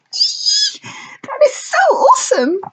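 excited pixie shout. A narrator's reading.

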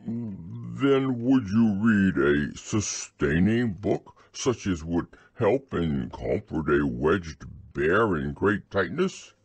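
slow, tearful bear's plea. Acted. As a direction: ask for comfort through tears. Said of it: "a tear rolled down his eye".

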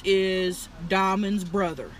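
talking around a cigarette; cigarette in mouth. Real, not acted. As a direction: lips clamped on cigarette. Seen 2: Right speaker talks with a lit cigarette held between her lips.

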